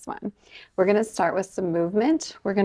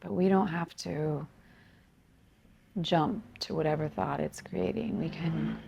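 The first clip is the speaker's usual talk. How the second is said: softer, unhurried meditation guidance with long pauses; guided meditation; 5 dB quieter than usual. Acted. Yoga teacher guiding students to become aware of breath, calm meditation voice. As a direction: gently lead them into noticing the breath, leaving space between phrases.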